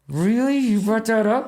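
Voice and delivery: imitating a father stunned by his daughter's story; incredulous look. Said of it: "like that".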